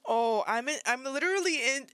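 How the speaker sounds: real upset, almost crying with anger; angry, near tears. Real, not acted. Reactor so mad at the story, almost in tears. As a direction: let anger push you close to tears. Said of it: "almost in tears right now 'cause I'm so fucking mad".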